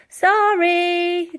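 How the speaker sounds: loud, high quick sorry; called-out apology. A narrator's reading. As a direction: shout an apology over your shoulder. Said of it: "called out Elsie".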